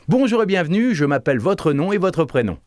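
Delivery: high, lifted "Bonjour" full of wanting to share; generous eager greeting. Shown as a demonstration. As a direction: play it to the hilt, smiling. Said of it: "avec l'envie de partager".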